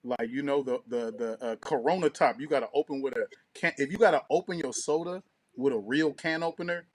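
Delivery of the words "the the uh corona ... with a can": ordinary delivery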